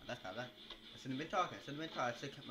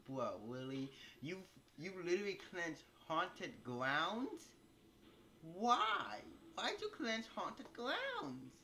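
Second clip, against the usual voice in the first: mock angry teammate; 8 semitones higher, 4 dB louder, much slower than usual. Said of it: "They'd be like".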